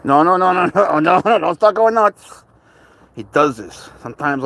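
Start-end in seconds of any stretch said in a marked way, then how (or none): 0.1-2.4 urgent pleading. Real, not acted. Cat pulling wildly on leash.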